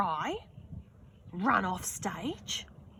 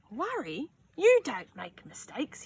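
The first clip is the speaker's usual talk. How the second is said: smiling dad; 5 semitones higher than usual. Acted. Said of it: "he said with a smile".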